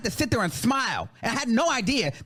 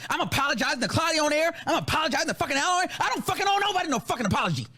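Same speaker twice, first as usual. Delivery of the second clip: higher, quickening angry rant; indignant; 3 semitones higher, faster than usual. Real, not acted. Defending their peacemaking against accusers, indignant. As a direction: build speed as you refuse to apologise. Indignant about having apologised.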